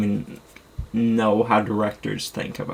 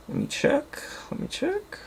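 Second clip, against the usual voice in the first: whispered muttering; 7 dB quieter than usual. Real, not acted. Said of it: "muttering while searching shelf".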